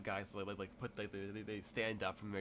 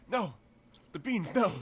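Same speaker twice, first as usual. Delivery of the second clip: high, loud mock panic; scared young gangster pleading at gunpoint, mock panic; scared kid; 8 semitones higher, 8 dB louder than usual. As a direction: plead in hammed-up terror. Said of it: "and he's just like".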